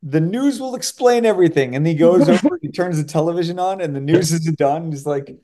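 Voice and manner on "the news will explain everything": 1 character voice. Retold or imitated. Retelling film character's line.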